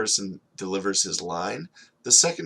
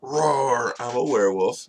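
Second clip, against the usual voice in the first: werewolf used to it; 3 semitones higher than usual. Acted. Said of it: "It's just how he does".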